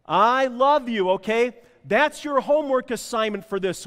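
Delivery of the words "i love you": loud, slow, emphatic I love you, higher; really mean it, projecting to the room; loud and slow declaration of love. Shown as a demonstration. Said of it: "Say it like you mean it".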